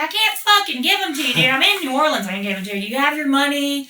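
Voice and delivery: high-pitched, protesting comeback; retold exasperation. Telling the man she is out of town, exasperated. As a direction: plead your case, fed up with him. Acts out exasperated reply to him.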